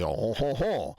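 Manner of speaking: exaggerated French nasal "on-hon-hon"; stereotyped French nasal chortle; mock French laugh. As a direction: make fun of a French accent with repeated nasal honks. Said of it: "how we always make fun of French people".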